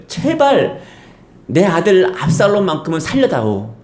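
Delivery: high, begging plea for his son; pleading David. Retold or imitated. Preacher voicing David begging to spare his son. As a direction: beg for the son's life.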